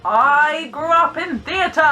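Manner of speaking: loud, high stage projection; projected theatre voice. Shown as a demonstration. Posh-voiced performer explaining her training, projected stage voice. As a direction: project it grandly to the back row. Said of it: "I got taught how to project".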